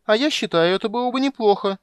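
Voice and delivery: high, loud wheedling whine; whining kender. Acted. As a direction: tug and nag. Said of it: "законючил Кендер".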